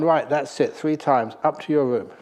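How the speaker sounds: loud stern order; father shouting. Acted. Father sends his son to his room, loud angry command. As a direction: bark the punishment, loud and final. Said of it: "the father shouted at his son three times".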